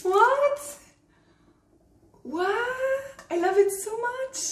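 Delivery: very high, incredulous delight; thrilled disbelief. Real, not acted. Vlogger marvelling at the gift, thrilled disbelief. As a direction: pitch it right up, astonished and loving it.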